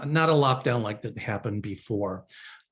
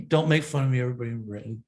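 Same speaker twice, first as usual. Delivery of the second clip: put-on playful British accent; much faster than usual. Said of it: "I just love to do my British accent".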